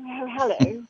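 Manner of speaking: playfully posh English accent; Downton Abbey posh. Shown as a demonstration. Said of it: "go more Downton Abbey".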